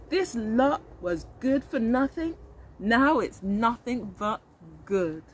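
put-on a light, slow old man voice; grumpy old neighbour softening, lightly voiced; old neighbour's voice. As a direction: let the old man savour it slowly. Old man's reflective line.

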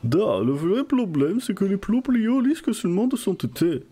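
put-on a hammy Russian accent in French. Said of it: "l'autre l'accent russe".

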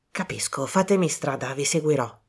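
unhurried detective taking charge; calm Poirot. Acted. Poirot to Colin, quiet and composed.

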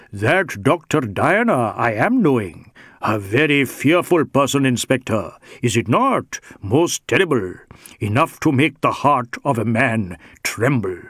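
lightly voiced Indian rogue, playing fearful; a hint of hammed-up dread; awed Sikh suspect. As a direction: dwell with relish on how terrible she is.

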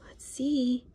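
put-on a read-aloud whisper to kids; hushed whisper. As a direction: whisper it as you peek. Hushed peek.

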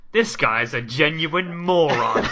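imitated sitcom outburst, drawn out; Mark. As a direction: declare it slowly and loudly, hammed up. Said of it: "Mark goes".

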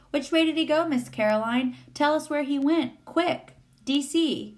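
put-on high, urgent boy's questioning. A narrator's reading. Boy urgently chasing the creature.

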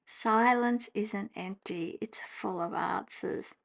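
slow, flat, fading off on answers; dry sceptical reread; unimpressed reading. Shown as a demonstration. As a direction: read it like it falls flat. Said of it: "how much more does this say to you".

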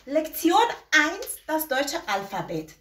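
slow, careful German title; slow German lesson heading; German lesson title read out slowly. Shown as a demonstration. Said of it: "درس اولمون هست الفبای زبان آلمانی".

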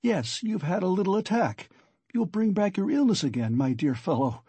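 lilting, understated solicitude; friendly sympathy. A narrator's reading. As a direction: fuss over him sympathetically. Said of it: "cackled with friendly sympathy".

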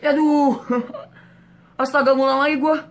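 loud high yelp with a laugh; half-laughing cry of dismay; exasperated laughing yelp. Real, not acted. Character dies, must restart.

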